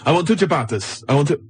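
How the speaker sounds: put-on wobbly Italian accent that drifts towards Kenyan; bad Italian accent. Storyteller mimicking bloke after ciabattas, botched Italian accent. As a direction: imitate an Italian customer, accent badly off. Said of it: "like, Kenyan".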